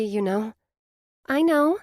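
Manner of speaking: high, reassuring friend's voice; best friend, kind and sure; comforting Blair. A narrator's reading. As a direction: ease her friend's guilt.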